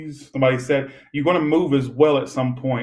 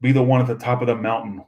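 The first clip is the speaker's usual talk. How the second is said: uppity Disney voice; 2 semitones lower than usual. Acted. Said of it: "Why am I talking like that?".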